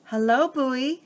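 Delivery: tiny creatures greeting from below; small crab voices. Acted. Crabs in an egg carton greet Bowie, high small voices. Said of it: "small voices came up from the carton".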